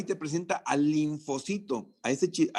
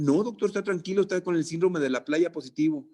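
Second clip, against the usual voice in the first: student answering; 3 semitones higher than usual. Acted.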